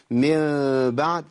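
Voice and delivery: من بعد with a small gap between the lips; lips apart. Shown as a demonstration. Teacher to students, open-lip demo. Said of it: "أعمل فرجة أقول".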